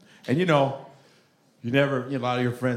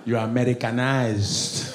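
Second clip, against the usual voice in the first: put-on Nigerian accent; 3 semitones lower, slower than usual. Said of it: "Even Nigerians be testing me".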